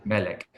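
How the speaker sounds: Melek stressed on Mel; first-syllable stress. Shown as a demonstration. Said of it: "the accent is on the first part".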